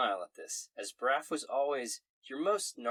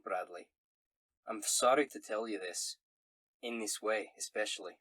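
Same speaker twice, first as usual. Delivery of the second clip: solemn Scottish letter-writer; Scottish accent. Acted. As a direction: break sad news in a Scots brogue. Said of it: "in a Scottish accent".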